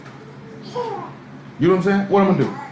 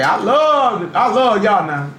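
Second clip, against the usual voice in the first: mock professions of love, pitched up; mock gushing; 3 semitones higher, slower than usual. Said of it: "Y'all like to sit back and say".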